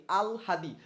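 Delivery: "আলহাদি" with a clear l before h; pronunciation demo. Shown as a demonstration. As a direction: model "আলহাদি" as al-ha-di. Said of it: "এর উচ্চারণ কি". ("আলহাদি" উচ্চারণে আল-হা-দি)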